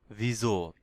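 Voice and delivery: "ভিজো" as vee-zo, falling. Shown as a demonstration. Teacher models German how come, voiced-z pronunciation. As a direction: voice the middle of "ভিজো" as z. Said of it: "ঝ উচ্চারণ হবে".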